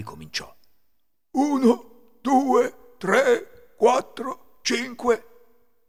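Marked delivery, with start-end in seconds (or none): 1.3-5.9 loud, high, deliberate count; thief counting. A narrator's reading. Thief counting stolen money aloud, loud measured count. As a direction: count out each number loudly. Ladro conta i denari.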